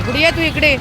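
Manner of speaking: high, loud call to a timid dog; high coaxing call. Real, not acted. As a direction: lure the scared dog closer. Calling shy dog. (घाबरलेल्या कुत्रीला लाडाने हाक)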